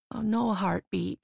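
lightly voiced gentle doctor, a touch sing-song; hint of a musical lilt on "no heartbeat"; doctor softly breaking bad news, faint lilt. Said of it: "in a soft and lilting tone, almost musical".

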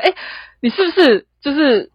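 a doctor's mock-worried question; alarmed worry. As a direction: sound alarmed that it's serious. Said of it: "他会觉得".

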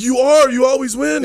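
high, loud, hammed-up adulation; mock awed agreement. Retelling his answer to his idol, loudly awed. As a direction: gush back at full voice as a converted fan.

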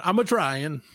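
lightly put-on Italian-American accent. Host jokes about speaking to Italian listeners, mock Italian-American accent. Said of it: "more of an over here kind of thing".

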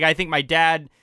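usual speaking voice

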